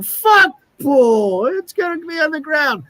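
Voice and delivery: put-on high, loud drunken Scottish accent; drunk Scotsman. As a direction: scoff like a sozzled Scot. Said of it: "a couple of Scotsmen. They're drunk. They go".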